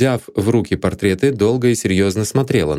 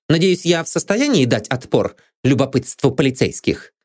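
higher, haughty indignation; indignant; 6 semitones higher than usual. A narrator's reading. Maid Anne scorns police curiosity. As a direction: look down on the police.

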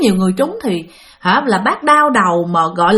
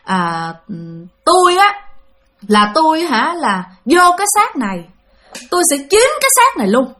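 higher, eerie ghost claiming the body; possessing ghost voice; 4 semitones higher than usual. Retold or imitated. Ghost speaking through the aunt to the family, eerie and high. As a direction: speak as the spirit that has taken her over, pitched up. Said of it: "bác nói rằng á là".

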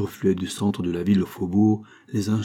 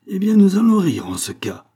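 a much higher, louder furious cry; terrible voice; 11 semitones higher, 6 dB louder than usual. Acted. Farmer defying royalist hussars, furious cry. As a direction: blurt out defiance at the royalists. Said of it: "s'écria Biot d'une voix terrible".

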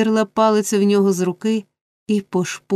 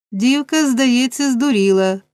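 angry; 5 semitones higher, 4 dB louder than usual. A narrator's reading. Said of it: "розлючено відповів Сайкс".

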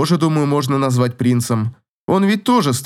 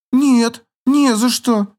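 much higher squealed denial; high squeaky girl's denial; thin squeal; 9 semitones higher, slower than usual. Acted. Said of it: "тоненько взвизгнула она".

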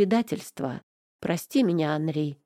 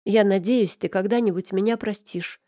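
usual speaking voice

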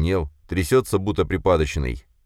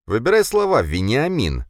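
loud, much higher sharp rebuke; growled warning; 7 semitones higher, 3 dB louder than usual. A narrator's reading. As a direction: put him in his place hard. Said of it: "рыкнул на него Драгунов".

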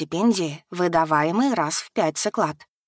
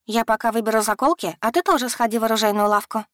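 put-on young woman voice; 4 semitones higher, faster than usual. Yana voiced in the story.

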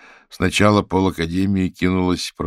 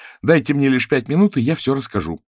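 higher and louder, pressing for time; urgent plea; 7 semitones higher, 5 dB louder than usual. Acted. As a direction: beg them for five minutes. Evgenia pleads for time.

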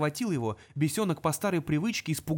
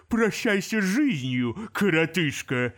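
slow, louder demon threat; menacing demon; 3 semitones higher, 5 dB louder, slower than usual. Acted. Crazed demon threatening the imp. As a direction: savour the threat.

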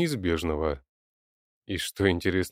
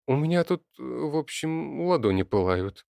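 hesitant; 8 semitones higher than usual. Acted. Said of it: "неуверенно начала Алёна".

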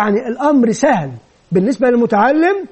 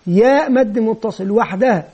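slow drill; slower than usual. Shown as a demonstration. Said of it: "ثم عبارة".

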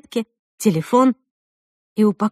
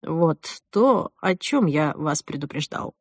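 low, soft, sighed remark; subdued, lowered voice; sighing resignation; 4 semitones lower, 4 dB quieter, slower than usual. A narrator's reading. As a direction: sigh it regretfully. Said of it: "вздохнул Джек".

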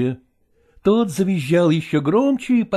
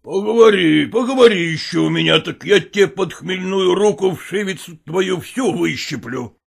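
threatening stepfather; 2 semitones higher than usual. Acted. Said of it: "грозил Васютке Михайло".

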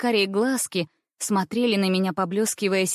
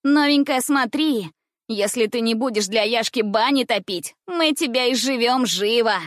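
ringing threat; 3 semitones higher, 4 dB louder than usual. Acted. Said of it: "звенело в третьем".

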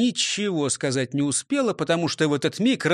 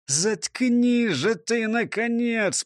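hissed through teeth; 7 semitones higher, much slower than usual. A narrator's reading. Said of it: "прошипел, скрипя зубами".

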